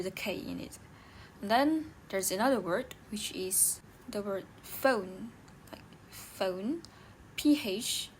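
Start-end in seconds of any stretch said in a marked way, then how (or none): 4.6-5.3 "phone" begun with an F sound. Shown as a demonstration. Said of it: "makes an F sound". 6.1-6.8 "phone" begun with an F sound; "phone" shown slowly, PH as F. Shown as a demonstration. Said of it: "makes an F sound".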